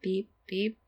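high, soft robot beeps; toy robot voice. Pretend. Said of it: "So helpful".

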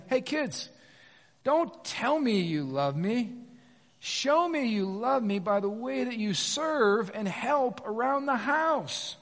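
slow, drawn-out motherly admonishing; a hint of mom spelling it out for the kids; lightly voiced mom. Wife telling eight kids to show their love, lightly imitated admonishing. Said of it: "my lovely wife ... has said this".

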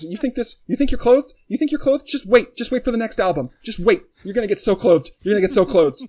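high, loud taunting voice; mocking future self. Future self taunting his past self, high and loud. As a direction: squeal it like a smug know-it-all.

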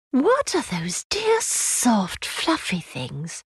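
put-on high little girl, softening at the end; child's voice. Child Lucy voiced in story.

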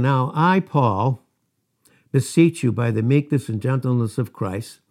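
mildly sarcastic, loud scripture reading. Retold or imitated. Preacher voices Paul writing to the Corinthians, lovingly sarcastic. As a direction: read it out loud with a touch of sarcasm. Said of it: "he's being very sarcastic here".

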